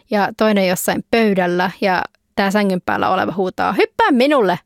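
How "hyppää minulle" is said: playful shout. Acted. Child on bed shouts.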